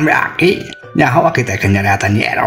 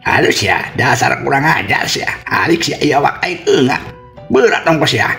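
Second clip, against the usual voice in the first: high, squashed, angry gasping; gasping for air; 8 semitones higher than usual. Acted. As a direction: scold them from under a crushing weight. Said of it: "meni eungap ngap-ngapan".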